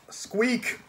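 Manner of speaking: high, sharp little squeak; one startled high rodent squeak; rat squeak. Acted. The Death of Rats squeaks at the raven.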